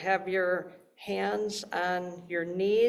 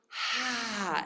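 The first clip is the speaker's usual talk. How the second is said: breathy ha; 3 semitones higher, 4 dB quieter than usual. Shown as a demonstration. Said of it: "it's like blowing hot air out".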